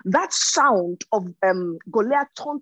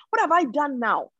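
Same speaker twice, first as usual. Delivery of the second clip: rhetorical protest; 5 semitones higher than usual. Retold or imitated. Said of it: "N K G says".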